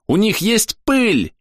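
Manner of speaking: high drawn-out yell. A narrator's reading. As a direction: shout the warning to the party. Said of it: "заорал Тануки". (громкий крик)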